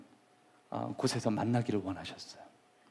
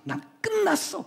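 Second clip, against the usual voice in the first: high, wailing cry of defeat; despairing wail. Acted. Peter crying out that he is finished, in a high wail. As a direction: wail that it is all over.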